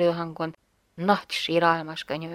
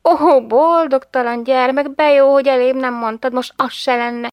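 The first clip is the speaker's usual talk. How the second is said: a mother scolding in loving despair; mother's lament; 5 semitones higher, 8 dB louder than usual. A narrator's reading. (az anya szomorú, szemrehányó sóhaja)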